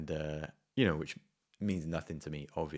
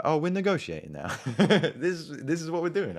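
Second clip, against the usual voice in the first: high, loud, laughing through it; delighted to be haggling now; loud high laughing glee at the haggling; laughing gleeful; 10 semitones higher, 7 dB louder than usual. Retold or imitated. Delighted as the price drops.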